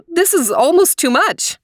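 a wife overwhelmed by the surprise; overwhelmed exclamation. A narrator's reading. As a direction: gasp it out, overcome with joy. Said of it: "exclaimed Mommy".

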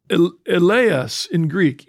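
eleos said slowly, eh-LAY-os; Greek word eleos. Shown as a demonstration. Host introducing the Greek word to viewers, slow and careful. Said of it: "E L E O S".

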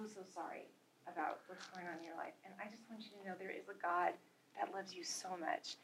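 soft, low, tender approach to a stranger; retold softly, with sincere sympathy; gentle reassurance. Speaker retells comforting a sad woman in line, gently.

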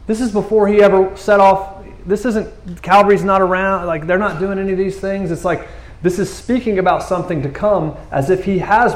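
pitched high with amazement; amazed. Real, not acted. Preacher marveling to congregation, high and amazed. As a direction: ride the astonishment high. Amazed at prophecy before Calvary.

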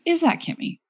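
high-pitched exasperated question; imitating a fed-up roommate's skeptical question; eye-rolling disdain. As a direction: ask it with an exaggerated eye roll. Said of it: "rolls her eyes harder than she can roll 'em".

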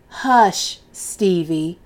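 提高音量喝止男孩; sharp hush. Acted. Mother hushes the boy.

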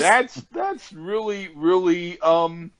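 tipsy, laughing, tripping over "I". Real, not acted. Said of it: "I'm so drunk right now".

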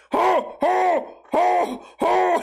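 high shouted ho ho ho hoots of pain; burnt hand noise. Retold or imitated. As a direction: yelp over and over like a scalded hand. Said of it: "That's my burnt hand noise".

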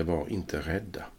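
calming. Retold or imitated. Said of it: "på ett lugnande sätt".

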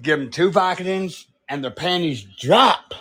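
lightly voiced crude movie character; mild impression with a rising last word; Tweeter. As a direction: deliver it as a character's catchphrase. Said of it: "I can do Tweeter".

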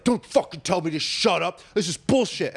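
mildly hammed-up angry retort; mock freaking out. Friend refusing to shut up, mock indignant. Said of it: "The dude's freaking out".

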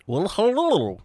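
rising high hello; high surprised greeting. Acted. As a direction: squeak out hello, delighted.

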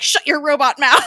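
hammed-up general telling him off; Talbot snapping. Talbot barking at Coulson, mock loud.

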